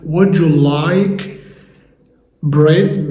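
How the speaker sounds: a parent's question, said very slowly; slow modelled question. Acted. Parent asking their child about bread, said slowly. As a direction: offer the bread slowly and clearly. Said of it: "مامتك أو باباك أو حد صاحبك يسألك".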